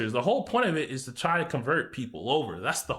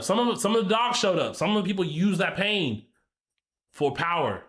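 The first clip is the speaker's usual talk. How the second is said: raised, heroic anime voice; 2 semitones higher than usual. Pretend. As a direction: deliver it like an anime hero. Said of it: "in my anime voice".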